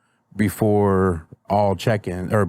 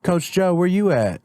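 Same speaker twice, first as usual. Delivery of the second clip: put-on higher-pitched kid asking coach; imitating students; 9 semitones higher than usual. Students checking in on their coach, imitated in a higher voice. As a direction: lightly mimic a pupil calling out, pitched up. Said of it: "Well, they be asking me too".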